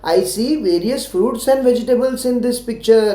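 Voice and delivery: very slow, every word spaced; slow model answer. Shown as a demonstration. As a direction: say it slowly for them to copy. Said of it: "ऐसे बोल पाओगे ना".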